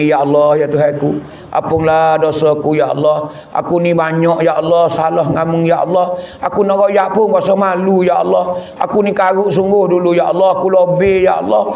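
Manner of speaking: acted supplication building from subdued to urgent; pleading night prayer. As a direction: beg God in an unbroken, rhythmic stream. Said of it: "Teriak malam-malam kita minta Tuhan".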